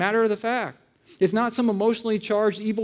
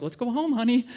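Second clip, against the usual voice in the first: lightly voiced spouse, higher pitch; gently coax, putting on a higher voice; imitated spouse; 4 semitones higher than usual. Imitates spouse coaxing an angry fan.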